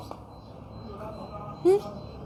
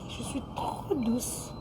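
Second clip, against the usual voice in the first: slow, much softer sweet voice; 10 dB quieter, slower than usual. Shown as a demonstration. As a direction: breathe it out gently. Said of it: "Je parle calme".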